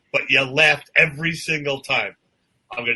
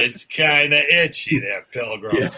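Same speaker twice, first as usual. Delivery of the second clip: cowboy star voice, lightly done; John Wayne. Acted. Riffing on the star in his costume, mock cowboy. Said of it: "John Wayne was in it".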